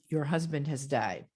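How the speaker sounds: low, measured, falling; gentle bad-news voice. Shown as a demonstration. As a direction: say it softly after a held wait. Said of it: "Okay, like that".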